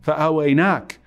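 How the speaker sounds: heartfelt preacher building the story to its climax; impassioned retelling. Acted. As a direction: plead the Ansar's case with rising passion. Prophet voicing the Ansar's reply.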